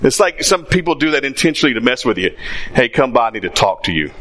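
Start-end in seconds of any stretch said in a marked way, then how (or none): 2.7-4.1 ominous tone. Pretend. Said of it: "you think it's in that tone".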